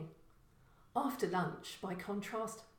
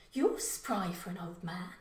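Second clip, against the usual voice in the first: spat. Acted. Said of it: "she spat".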